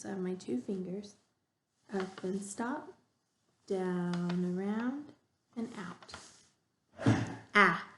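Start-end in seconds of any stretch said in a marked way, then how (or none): 1.9-6.1 slow instructions. Shown as a demonstration. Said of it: "It has some instructions". 7.5-7.8 clear, open Ah like biting an apple; short ah sound. Shown as a demonstration. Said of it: "This sound is like when you're eating an apple".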